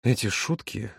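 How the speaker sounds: quiet, low drawl, understated; drawn out. A narrator's reading. Volodya reacts to his friend's jokes, mildly drawn out. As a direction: draw it out softly and low. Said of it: "протянул Володя".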